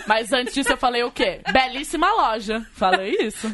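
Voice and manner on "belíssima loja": slow, flat compliment; slow, grave delivery of Belíssima loja; deadpan tone. Retold or imitated. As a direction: drag out Belíssima loja with no enthusiasm. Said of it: "Com esse tom".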